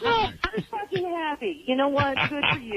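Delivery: bitter laugh while crying; laughing through tears. Real, not acted. Caller laughs tearfully at the host's jokes.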